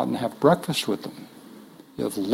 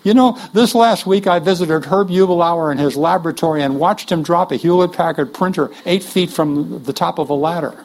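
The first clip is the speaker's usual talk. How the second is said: imitating a preacher; 3 semitones higher than usual. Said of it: "Gordon the next Sunday morning preaching".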